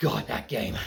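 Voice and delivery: shuddering disgust, voice very low. Listing a studio's weaker games, shuddering.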